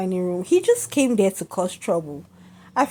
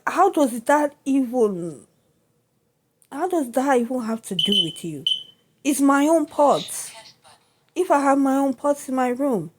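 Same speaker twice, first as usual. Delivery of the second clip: exasperated, raised and slowed, pushing back; indignant retort; 5 semitones higher than usual. Retold or imitated. Retelling snapping back at the roommate over her own pots, exasperated. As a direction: demand to know what it has to do with him.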